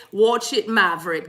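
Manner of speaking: a hint of a stern guide, slowing and dropping; spirit guide. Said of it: "they say".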